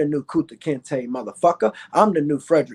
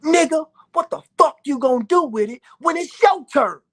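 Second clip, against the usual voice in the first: higher, louder shout in another man's voice; Dick Gregory shouting; 8 semitones higher, 3 dB louder than usual. Retold or imitated. Old man confronting the young boxer at the funeral, shouting. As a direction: bark the question like a stern elder. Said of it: "he repeated himself".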